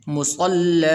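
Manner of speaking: مُصَلًّى ended with a slightly stretched vowel at the stop; pausal lengthening. Shown as a demonstration. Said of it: "حالت وقف کے اندر اس کو تھوڑا سا لمبا کیا جاتا ہے". (وقف پر مُصَلًّى کو تھوڑا لمبا)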